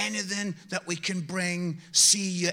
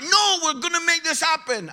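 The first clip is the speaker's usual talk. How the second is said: mock insistent wife; 9 semitones higher, 9 dB louder than usual. Wife insisting, retold story.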